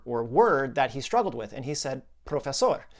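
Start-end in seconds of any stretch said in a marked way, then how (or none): 2.2-2.9 "Profesor" with a Spanish rolled o and open final o; Spanish pronunciation. Retold or imitated. Patient's problem word, said Spanish style. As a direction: say "Profesor" the Spanish way, PRO-fe-SOR. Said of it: "he would say it in Spanish".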